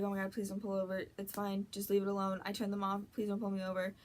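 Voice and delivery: softly muttered, hurried pleading; retold anxious muttering; muttered plea. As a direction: plead under your breath, quickly. Retold plea while being tailed.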